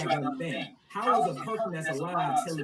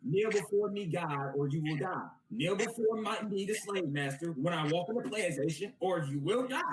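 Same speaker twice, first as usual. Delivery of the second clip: menacing slave master god; lightly voiced tyrant god; cold rasping evil emperor. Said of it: "the God of the Bible is a slave master".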